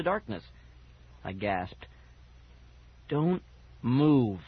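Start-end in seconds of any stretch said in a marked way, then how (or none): 3.1-4.4 dry, eerie voice giving an order; dry whisper. A narrator's reading. Ghost dog ordering the children, dry whisper of a voice. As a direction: warn them in a dry creature voice. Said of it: "instructed a dry whisper of a voice".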